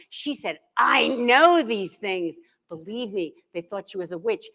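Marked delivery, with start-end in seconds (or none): 0.8-2.3 very slow, all-knowing; knowing mother. Retold or imitated. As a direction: draw it out like a mother who just knows. Mother answers reporter.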